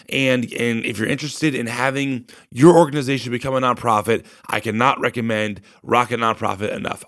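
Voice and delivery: hoarse, tired voice fading; losing my voice, push through it; voice giving out. Real, not acted. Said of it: "I'm losing it, I'm sure, as you can hear".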